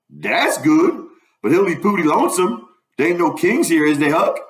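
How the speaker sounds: lightly voiced Southern dialect character; a hint of a concerned dialect character; Jim, sympathetic. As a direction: wonder aloud in old Southern dialect.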